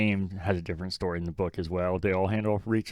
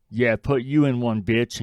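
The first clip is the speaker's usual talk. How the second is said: loud, hammy mock aggression; aggressive and corny; 3 semitones higher, 6 dB louder, slower than usual. Quoting Riz's terrible dialogue to a co-host, mock-aggressive and corny. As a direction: put on a corny, louder tough-talk quote. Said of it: "very aggressively and corny".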